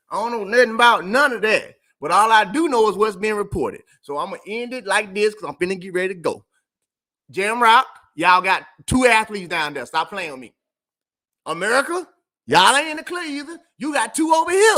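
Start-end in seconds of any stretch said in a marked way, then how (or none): 0.1-1.8 emphatic denial. Real, not acted. Repeats denial louder. 7.3-14.8 calling out. Real, not acted. Calling out two countries.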